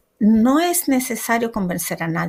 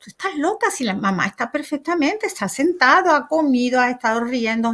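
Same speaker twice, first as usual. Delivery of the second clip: brushing off a crazy idea, a bit scoffing; incredulous sister-in-law; 4 semitones higher than usual. Retold or imitated. Sister-in-law dismissing her worry.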